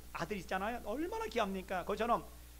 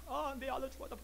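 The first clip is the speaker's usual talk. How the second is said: higher, softer acted lament; retold wailing; 5 semitones higher, 4 dB quieter than usual. Man mourning his dead son, hushed mock wail. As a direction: imitate a father sobbing over his loss. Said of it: "막 통곡하고".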